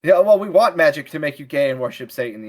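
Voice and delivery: smug mocking voice. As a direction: sneer it like a smug activist. Mocking modern voice.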